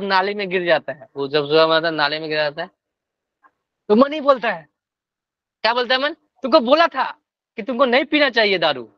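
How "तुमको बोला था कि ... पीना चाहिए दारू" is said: raised, reproachful told-you-so; scolding. Retold or imitated. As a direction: scold like a nagging inner voice. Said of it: "अभी वही डांट रहा है मन".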